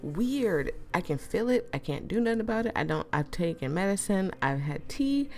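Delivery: sore swollen throat; talking through a sore throat; swollen tonsils voice. Real, not acted. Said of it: "my throat is swollen".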